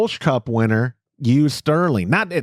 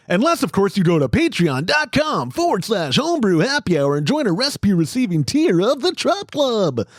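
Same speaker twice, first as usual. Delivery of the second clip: far, higher sales-pitch voice; infomercial voice; 6 semitones higher than usual. Acted. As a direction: pitch it like a TV ad host. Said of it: "That was my infomercial voice".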